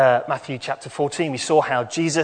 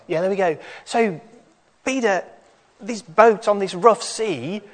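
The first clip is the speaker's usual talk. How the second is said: put-on lively higher children's storyteller; kids show host; 5 semitones higher than usual. Children's talk, higher animated voice.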